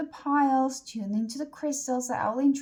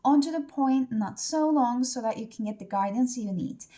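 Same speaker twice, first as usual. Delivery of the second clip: normal talking voice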